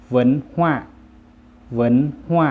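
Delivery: เหวินฮั่ว as loud Chinese, climbing in tone; Chinese pronunciation. Shown as a demonstration. Teacher models the word for culture, Chinese pronunciation of เหวินฮั่ว. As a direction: say เหวินฮั่ว in Chinese, rising high. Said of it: "ภาษาจีนจะว่าว่า".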